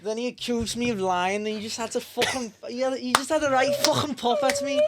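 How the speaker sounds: put-on Scouse accent, half-joking reenactment. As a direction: ham up a Scouse footballer rant in a Scouse accent. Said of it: "give us a Scouse accent".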